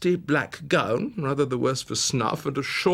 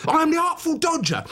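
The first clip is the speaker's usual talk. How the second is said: put-on much higher, perky street-boy voice; high, bright urchin voice; cheeky Artful Dodger; 3 dB louder than usual. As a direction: pop it out like a cocky young pickpocket. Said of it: "a different voice for each character".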